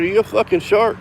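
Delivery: high-pitched imitation of a suspicious challenger; incredulous retold question. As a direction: quote him in disbelief, voice jumping up.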